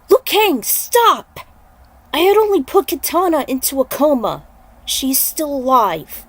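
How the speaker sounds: loud pleading shout that slows at the end; urgent shout. Acted. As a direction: halt him before he attacks. Raiden stopping the enraged monk.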